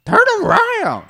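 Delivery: high yelled command; shouting across a field. Acted. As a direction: bellow it across the lawn. Calling to friends across garden.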